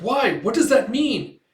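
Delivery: high, loud, drawn-out demand; alarmed questioning. Retold or imitated. Alarmed question at bad news.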